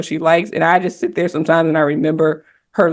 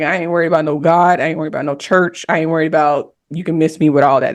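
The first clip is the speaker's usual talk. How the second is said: defiant attitude. Retold or imitated. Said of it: "That was my attitude".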